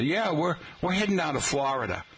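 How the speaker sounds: quick quote with "Florida" as FLAH-rih-duh; "Florida" starting "flah", tossed off quickly; mom's pronunciation. Retold or imitated. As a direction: imitate mom saying "Florida" with an "ah". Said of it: "as my mom used to say".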